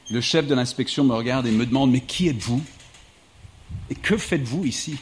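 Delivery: measured literary reading voice; steady book-excerpt narration; reading aloud. Acted. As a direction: carry the audience through the scene like a storyteller. Reads an excerpt from his book.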